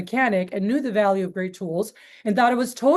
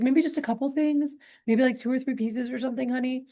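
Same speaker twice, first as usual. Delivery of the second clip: higher, softer coaxing plea to her husband; sweet pleading wife; 4 semitones higher, 3 dB quieter than usual. Retold or imitated. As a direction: coax him gently into buying a few pieces.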